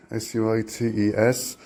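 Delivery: "S U I T E S" spelled slowly letter by letter; spelling it out. Shown as a demonstration. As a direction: spell "S U I T E S" out one letter at a time. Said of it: "the promotion was for three-piece suites".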